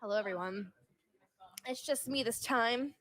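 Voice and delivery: soft ASMR voice. Pretend. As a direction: ease into it like an ASMR host. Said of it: "We'll do A S M R".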